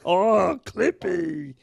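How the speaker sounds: high, sing-song nudge-nudge teasing. Pretend. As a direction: tease it up high like a knowing wink.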